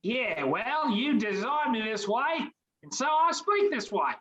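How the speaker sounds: put-on British accent. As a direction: creature chatting in a light British accent. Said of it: "you sound like you're from over the pond".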